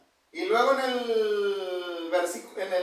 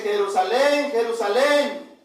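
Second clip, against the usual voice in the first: calling out; 4 dB louder, slower than usual. Acted. Cita el lamento del Señor.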